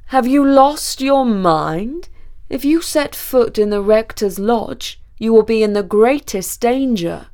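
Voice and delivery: loud, slow, grave warning; the Count aghast, stretching out each word loudly; alarmed Count. A narrator's reading. Count warns the student off the rector's lodge, aghast.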